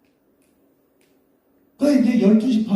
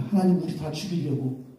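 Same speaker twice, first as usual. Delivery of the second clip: complaining. Retold or imitated. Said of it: "막 불평하는 거야".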